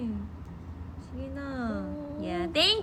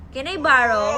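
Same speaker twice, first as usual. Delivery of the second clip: louder tearful begging; crying plea; 4 dB louder than usual. Real, not acted. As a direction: wail the request, pushing harder. Child crying louder for charger.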